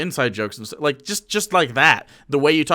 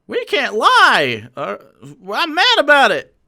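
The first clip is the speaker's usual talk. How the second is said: laughing; 9 semitones higher, 6 dB louder, slower than usual. Real, not acted.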